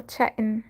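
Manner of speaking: "chatting" with the T dropped; British dropped T. Shown as a demonstration. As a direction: say "chatting" British-style, swallowing the middle T. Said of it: "as Britishers would say, chatting".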